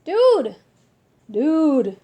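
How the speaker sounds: loud, urgent call; shouting to a friend. Acted. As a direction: grab his attention, loudly. Calling out to creature.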